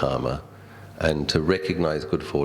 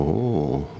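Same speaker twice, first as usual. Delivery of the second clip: awed ooh. Retold or imitated. Acting out his goosebump reaction.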